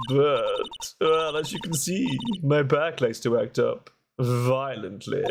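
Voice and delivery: lightly voiced chatty nun witness; testifying head nun. Head nun recounts that night to the court, chatty. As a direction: tell your testimony as a talkative nun, lifting towards the end.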